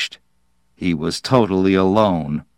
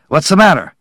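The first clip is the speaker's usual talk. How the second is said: higher-pitched, lightly raised call; mild yell; 6 semitones higher, 4 dB louder, much faster than usual. A narrator's reading. Workman hurrying over to a fallen boy, mildly yelling. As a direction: call it out urgently, short of a full shout. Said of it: "one yelled at him".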